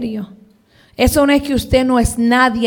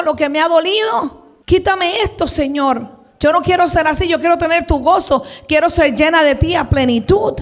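higher-pitched, urgent plea to God; pleading prayer; 4 semitones higher than usual. Retold or imitated. Praying to God to take sadness away, pleading. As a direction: re-enact praying hard against sadness.

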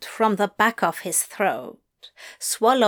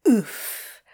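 grunt. Acted. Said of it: "Crowley grunted".

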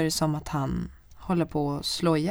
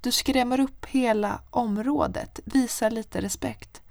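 scolding; 7 semitones higher, slower than usual. Retold or imitated. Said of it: "jag säger".

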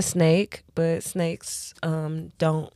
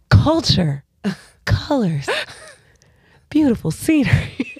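mocking travel ad voice; travel guy; 6 semitones higher, 3 dB louder than usual. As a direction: parrot the travel host. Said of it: "you sound like the travel guy".

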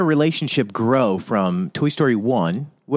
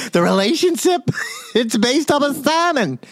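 giggling through the words; laughing; 8 semitones higher than usual. Real, not acted. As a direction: talk while cracking up.

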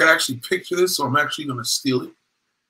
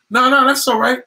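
polite high protest; 10 semitones higher, 5 dB louder than usual. Retold or imitated. Woman declining politely.

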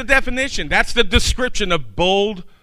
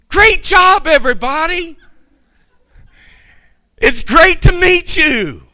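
excited Buddy the Elf yell; 10 semitones higher, 4 dB louder than usual. Retold or imitated. Buddy cheering the diner staff, high excited shout. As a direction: yell it like a thrilled, childlike elf. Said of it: "he yells".

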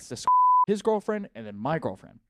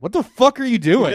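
loud, much higher yell breaking into a laugh; drunk shout; 11 semitones higher, 13 dB louder than usual. Retold or imitated. Drunk boyfriend yelling at his girlfriend across the room, laughing. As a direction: bellow it at her with a laugh. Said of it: "What really happened was I went".

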